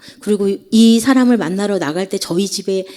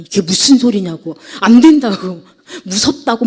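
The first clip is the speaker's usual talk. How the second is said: mildly alarmed mother, louder protest; retold motherly objection, pushing back louder; 놀라서 반대하는 엄마; 5 dB louder than usual. (딸의 말에 펄쩍 뛰며 반대하듯)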